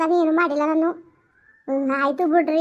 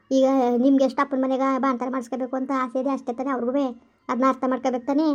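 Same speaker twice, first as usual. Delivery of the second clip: lower, firm motherly comfort, a bit faster; consoling mother-in-law; 5 semitones lower, faster than usual. Acted. Mother-in-law hushing her crying pregnant daughter-in-law, lower comforting voice. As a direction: talk her out of crying like an older woman.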